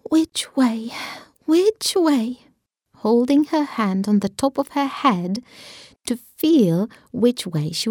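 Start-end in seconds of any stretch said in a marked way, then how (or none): 0.1-2.5 anxious half-whisper, rising. Acted. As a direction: fret over it under your breath. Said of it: "said anxiously to herself".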